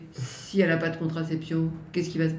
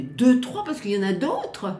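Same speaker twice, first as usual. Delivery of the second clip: surprised; 7 semitones higher, 3 dB louder than usual. Real, not acted. Nurse surprised by extra girlfriends.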